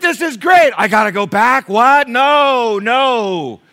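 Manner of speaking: very loud, high comic outrage; mock protest. Newcomer to heaven told to go back, loud mock protest. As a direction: act out dismayed, wailing refusal. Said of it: "Get to heaven, you're like".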